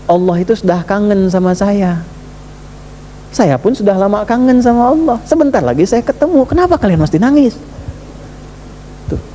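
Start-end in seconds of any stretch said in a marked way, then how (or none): 0.1-7.5 put-on higher, gently longing old teacher; dying sheikh's reply. Dying sheikh comforts weeping students, lightly voiced tender longing. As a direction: speak with calm longing for God. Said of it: "Apa jawaban Syekhnya".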